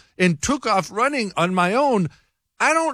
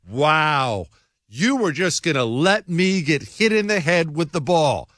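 imitating her reproach; 3 semitones lower than usual. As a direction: mimic her let-down tone. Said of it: "that was the exact tone of voice".

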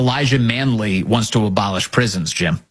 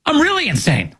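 mock socialist. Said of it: "they're like".

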